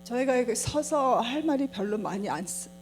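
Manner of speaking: Korean American accent, careful and unhurried. Real, not acted. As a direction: Korean spoken as a second language by a Korean American. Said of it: "제가 한국말을 잘, 잘 못해서".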